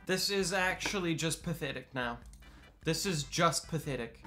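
soft and weary; too tired to get angry; drained. Real, not acted. Streamer to a pathetic DM, soft and drained. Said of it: "I don't even have the energy".

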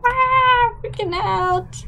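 high, loud mock panic; acted freak-out. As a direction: burst into a pretend panicked cry. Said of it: "and go".

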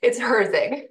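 Herzig spoken clearly, HER-zig, stress on the first syllable; saying her last name. Shown as a demonstration. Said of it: "not sure how to pronounce your last name".

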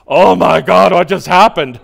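loud, bright disbelief; amazed exclamation. Retold or imitated. Sipping his coffee, amazed he didn't get angry, loud astonishment. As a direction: burst out in happy astonishment.

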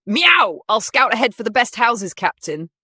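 high, loud eager kitten; cat voice. Acted. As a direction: meow it like a playful cat. Cat character voiced in story.

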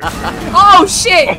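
sudden high startled shout; shocked yell. Real, not acted. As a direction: jolt of real surprise. Sudden shock during gameplay.

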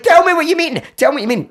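high-pitched pleading demand; acted-out desperate exasperation; stressed out. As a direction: insist frantically, voice pitched right up. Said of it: "I was getting all stressed out".

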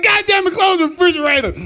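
shouting high about the fridge; mock angry yell. Man on his period snapping at the house, mock yell.

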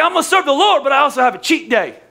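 lightly voiced churchgoer talking himself into a cheat day; preacher mimics a Christian excusing his cheat day; mock churchgoer.

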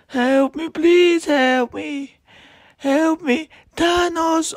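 high squeaky pleading voice; squeaky cries for help. Pretend. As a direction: squeal for help like a tiny figure. Toy victim squealing for help.

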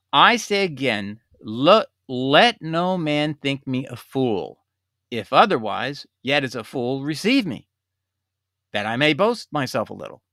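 slow, deliberate scripture reading; slow and calm. Real, not acted. A critic reading Paul's verses aloud to viewers, slow and calm. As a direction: read it out slowly and calmly, word by word. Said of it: "I'm gonna read it slowly and calmly".

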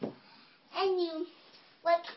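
funny princess. Acted. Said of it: "you're really, really funny".

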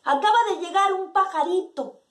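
high-pitched acted announcement; neighbour calling out. Neighbour announcing to the silent women, calling out. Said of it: "grita un vecino".

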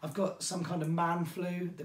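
slightly hoarse, losing voice; a voice going hoarse with a cold. Real, not acted. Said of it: "as you can tell, I'm starting to lose my voice".

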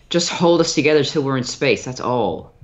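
filtered voice. Acted.

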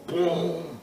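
booming impact noise; a drawn-out boom for a body landing; imitated thud. Storyteller mimics hitting the mat, imitated boom.

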